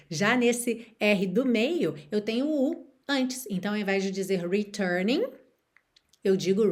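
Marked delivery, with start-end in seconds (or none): 4.5-5.2 "returning" with a rhotic American middle R; curled-R American "returning"; American accent. Shown as a demonstration. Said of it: "returning com sotaque mais americano".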